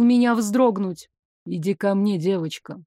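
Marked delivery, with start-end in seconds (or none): 1.5-2.2 low commanding summons; dragon king voice. Acted. 2.2-2.8 девочка dropped low and much softer; low soft dragon voice. Acted. Dragon king summons her.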